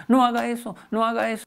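mock scolding from a fed-up mom; mother yelling. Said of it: "la mamá solo le grita". (grito de mamá regañona, más agudo)

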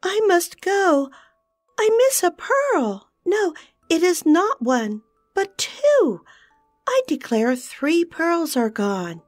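high, loud panicked fairy cry; alarmed cry. A narrator's reading. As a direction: cry out in sudden alarm over lost pearls. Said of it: "she cried out".

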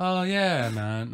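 dreamy British voice, high start then dropping; spaced-out, off-with-the-fairies imitation; Woody impression. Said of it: "maybe that's too".

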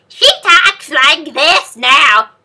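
high, slow, creepy princess voice. Retold or imitated. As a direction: imitate her eerie, drawn-out voice. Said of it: "she sounds really creepy".

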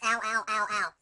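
repeated loud "ow" yelps; mock pain yelps. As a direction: yelp in short even bursts of pain. Playing game, mock pain cry.

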